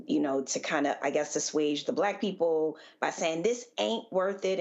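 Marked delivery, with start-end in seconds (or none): 3.4-4.6 quoted line with emphasis on "ain't", pitched higher and drawn out; stress on ain't. Retold or imitated. Commentator imitating how cops assuaged Black people, stress on "ain't". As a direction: lean slowly on "ain't", lifting the pitch. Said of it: "putting the emphasis on ain't".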